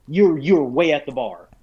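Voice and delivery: mildly exasperated reminder to a player; lightly protest, stumbling into it; acted-out game master objection; retold protest. Retelling his objection as game master.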